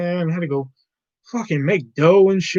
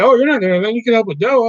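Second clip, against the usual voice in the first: higher, louder mocking imitation of the coworker; 7 semitones higher, 4 dB louder, faster than usual. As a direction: mimic her nagging in a raised voice. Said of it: "when she said that".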